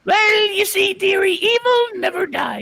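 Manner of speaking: theatrical wailing evil-queen voice; hammed-up villain queen. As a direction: camp evil queen, crying it out.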